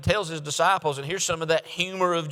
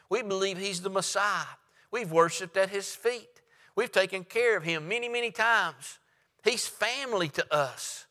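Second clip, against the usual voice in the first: a hint of hurt, pleading sisters; 4 semitones higher than usual. Mary and Martha wondering why Jesus stays away, lightly hurt plea. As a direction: voice Mary and Martha asking where he is.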